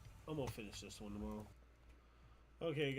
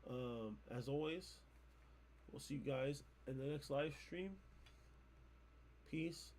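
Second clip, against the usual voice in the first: half asleep; 4 dB quieter than usual. Real, not acted. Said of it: "I'm, like, half asleep".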